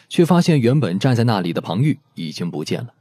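ordinary delivery

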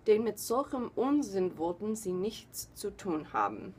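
straight, unexaggerated read-aloud in German; measured German story reading; serious German reading. Shown as a demonstration. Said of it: "just gonna do it seriously".

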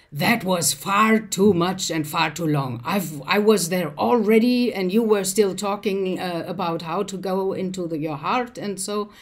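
imitated harsh reproach, loud at first. Woman scolding the meditation leader afterwards, imitated harshness. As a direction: scold in a mock harsh voice, easing off. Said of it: "kind of in a harsh tone".

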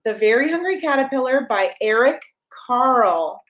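bright, sing-song picture book reading; reading to a child. Acted. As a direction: read it like bedtime story time for a toddler.

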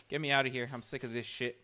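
normal talking voice

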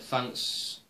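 whispered sarcastic thanks; a dry, whispered brush-off. Retold or imitated. Renee Young brushing off a creepy stare, whispered sarcasm. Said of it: "in a kinda sarcastic way".

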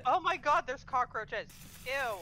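disgusted shriek. Real, not acted. Disgust at cockroaches.

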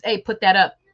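casual Southern put that up; Southern phrasing. Retold or imitated. Mom telling kids in Southern phrasing. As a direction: slip into Georgia speech telling the kids. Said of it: "already telling the kids".

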